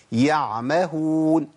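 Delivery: يعمهون drawn out slowly with the ع audible; slow recitation of يعمهون, making the ع heard; إظهار العين الساكنة; correct ain. Shown as a demonstration. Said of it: "سمع صوت العين؟".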